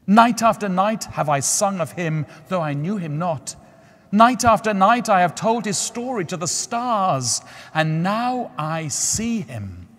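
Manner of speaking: the nightingale marvelling at a true lover; tender nightingale. A narrator's reading. Nightingale voiced in story.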